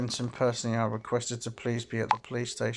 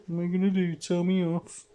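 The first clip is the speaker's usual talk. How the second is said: mocking challenge; 6 semitones higher, 4 dB louder than usual. Student mocks the professor.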